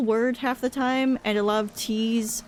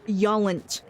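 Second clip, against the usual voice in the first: mock Texan drawl. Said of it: "They say stuff like".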